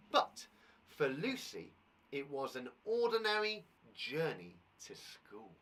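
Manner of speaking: slow, hushed storyteller read; story reading. Acted. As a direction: read it slowly, drawing them into the tale. Reads story opening aloud.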